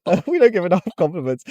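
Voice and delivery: self-mocking preachy voice. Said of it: "It's so embarrassing".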